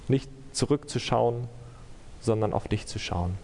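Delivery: earnest prayer, evenly pitched; measured, sincere closing prayer. Real, not acted. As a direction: pray steadily, pausing between phrases.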